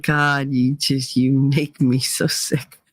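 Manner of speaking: low, slow exasperation; lightly acted, low-pitched revulsion; mild disgust. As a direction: drag it out, fed up. Acting disgust at her mother.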